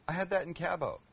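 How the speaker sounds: mock Canadian, Cabo as CAB-oh; Canadian accent. Cook playing a Canadian traveler, mock Canadian accent. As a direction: imitate a Canadian with a flat A in Cabo. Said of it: "as the Canadians would say".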